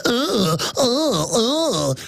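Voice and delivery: imitated whimpering ughs, repeated; mimicked trendy noise. Trendies walking along, mimicked whimpering groans. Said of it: "this is exactly how they act".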